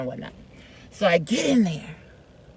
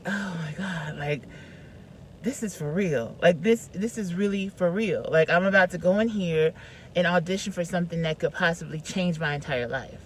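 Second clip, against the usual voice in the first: soft, hushed, almost breathless inner voice; awed hush to herself; 3 semitones lower, 8 dB quieter than usual. Retold or imitated. Sitting in the car before the audition, hushed and awed. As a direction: murmur it to yourself in disbelief. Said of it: "I'm just like".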